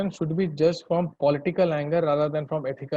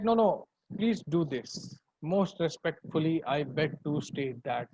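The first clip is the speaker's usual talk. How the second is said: slow, softer, over-polite pleading; mock humble petition; 3 dB quieter than usual. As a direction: beg humbly like a loyal petitioner. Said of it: "such language they used".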